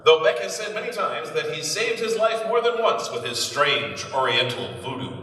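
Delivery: put-on brisk old newsreel narration; peppy vintage announcer read. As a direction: sell it like a 1930s newsreel.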